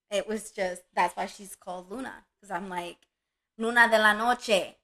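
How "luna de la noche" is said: loud, drawn-out pet-name call; proud, raised-voice call to a puppy; calling the dog. Retold or imitated. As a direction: sing out the nickname loudly in Spanish. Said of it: "That was the way I used to tell her".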